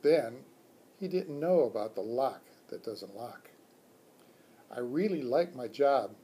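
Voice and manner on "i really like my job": hamster squeak. Acted. Hamster answers the teacher, light squeak. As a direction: chirp it proudly as the pet. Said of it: "I squeaked".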